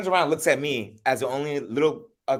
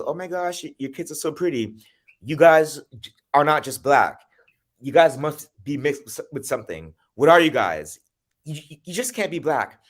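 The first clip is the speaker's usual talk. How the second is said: higher, louder fake-sweet gushing; lightly voiced nosy woman, higher and louder; gushing white woman; 5 semitones higher, 4 dB louder than usual. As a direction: play the nosy stranger gushing over the kids. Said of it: "she goes".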